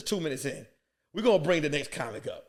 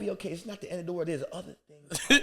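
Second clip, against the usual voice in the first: mild consoling; 3 dB quieter than usual. Retold or imitated. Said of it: "go like this".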